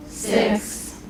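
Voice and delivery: six breathed in a whisper. Shown as a demonstration. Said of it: "whisper every other number".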